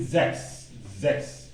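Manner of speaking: sechs said as "zeks", voiced z first; correct German pronunciation. Shown as a demonstration. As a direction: model sechs with a clear "ks" ending. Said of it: "You say sechs".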